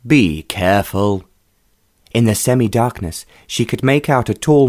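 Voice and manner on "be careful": slow, curt man's voice; a stranger brushing her off, impatiently. A narrator's reading. Stranger in the dark room to Rowena, impatient. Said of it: "a man's voice said impatiently".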